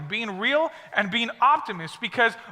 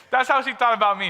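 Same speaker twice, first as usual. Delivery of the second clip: said again through a laugh, a bit faster; faster than usual. Real, not acted. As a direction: chuckle as you repeat it.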